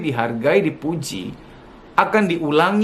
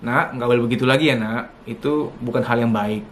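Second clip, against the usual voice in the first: gentle correction; 5 semitones lower than usual. Shown as a demonstration. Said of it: "tetap begini".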